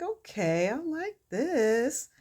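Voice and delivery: slow, lilting, pleased drawl rising high; smiling approval. Retold or imitated. Wife pleased by husband's lights and song, acted smiling approval. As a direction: stretch it out with an audible smile. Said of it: "she's all smiling".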